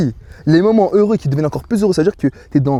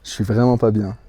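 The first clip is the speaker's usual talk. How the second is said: nervous; 9 semitones lower, 5 dB quieter, slower than usual. Real, not acted. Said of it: "je stresse".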